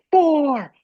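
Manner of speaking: high mock shout counting down; acted-out countdown yell; stage manager countdown. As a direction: call it out urgently over backstage noise. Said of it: "the stage manager's in my face going".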